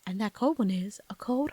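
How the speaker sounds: mock British ad read; affected hybrid British pitch; seventies British-Southern accent. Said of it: "Southern British accent".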